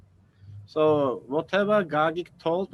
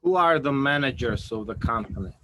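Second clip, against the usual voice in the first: a bit louder, clearly spaced words; to someone hard of hearing; 3 dB louder than usual. Real, not acted. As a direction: repeat it clearly for a listener who missed it. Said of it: "Say it again, please".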